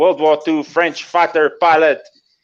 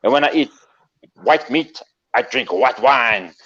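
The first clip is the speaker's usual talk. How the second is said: French fighter pilot. Acted. Pilot boasting to an admirer, lightly French and self-important. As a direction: announce yourself with a mild French accent. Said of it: "And he says".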